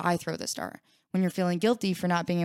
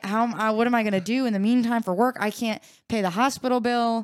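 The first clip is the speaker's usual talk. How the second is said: panicked worry; 4 semitones higher, 4 dB louder than usual. Retold or imitated. Imagined injured worker voicing money fears, mock panic. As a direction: voice pushed higher and louder, mock panic.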